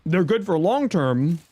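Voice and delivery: talking while chewing an apple; words round a bite of apple; mouth full. Real, not acted. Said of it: "sorry, I'm munching on an apple".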